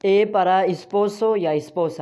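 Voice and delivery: slow "ए para esposo या esposa"; Spanish example phrase. Shown as a demonstration. Teacher links vowel to example words, slow ए para esposo. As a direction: draw out ए, then esposo and esposa clearly. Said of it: "इसको कैसे pronounce करना है?".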